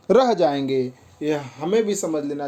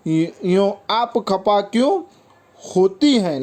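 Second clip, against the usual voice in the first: raised-pitch verse line; poem recitation; 4 semitones higher than usual. Acted. Boys asking the girls why they are upset, poem recitation.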